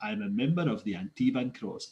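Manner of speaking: low, softened put-on accent; Zevran. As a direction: parody the elf's ridiculous accent. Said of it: "Just picture him saying that".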